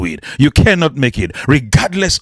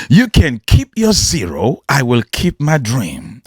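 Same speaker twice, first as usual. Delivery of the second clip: defiant repeat. Acted. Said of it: "My God".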